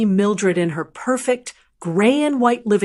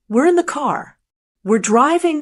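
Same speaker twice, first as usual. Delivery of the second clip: yelled; 5 semitones higher than usual. Retold or imitated. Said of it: "he yelled".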